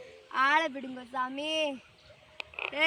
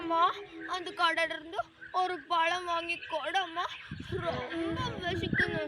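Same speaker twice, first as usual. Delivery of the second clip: tearful begging. Acted. Hungry child begs mother.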